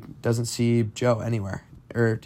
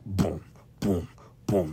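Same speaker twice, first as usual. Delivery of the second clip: low, soft, spaced-out booms; imitated heartbeat thud; 4 semitones lower, 7 dB quieter, slower than usual. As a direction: thud softly like a heartbeat in the ears. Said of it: "you can hear his own heartbeat".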